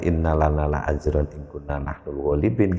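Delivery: INNALANA LA AJRON IN KUNNA NAHNUL GHALIBIN read level, like bare text; statement intonation. Shown as a demonstration. Teacher reading the bare text as a statement, level intonation. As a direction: read it as a plain report. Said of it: "kalau dari teks saja itu kalam khobar".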